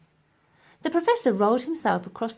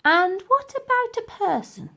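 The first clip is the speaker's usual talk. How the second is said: frightened; 13 semitones higher, 3 dB louder than usual. Acted. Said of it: "feeling more than a little frightened".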